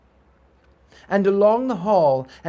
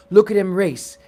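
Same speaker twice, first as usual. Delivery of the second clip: excited cheer; 2 semitones higher, 6 dB louder than usual. Acted. Boys cheer the runner.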